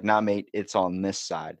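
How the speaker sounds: lightly voiced local, slow and drawn out; mock local correction. Local correcting a lost American driver, lightly imitated. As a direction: stretch it out like a local correcting a foreigner.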